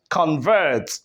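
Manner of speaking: Convert with VERT stressed and falling; stress on second syllable. Shown as a demonstration. Teacher repeating the verb, second-syllable stress on Convert. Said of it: "when the stress goes to the second syllable".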